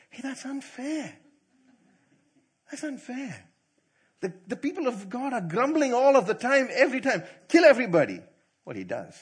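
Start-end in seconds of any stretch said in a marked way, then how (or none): 0.1-3.4 mock protest. Mock protest on Moses' behalf. 7.5-8.2 mock shout. Mock retort, God to grumblers.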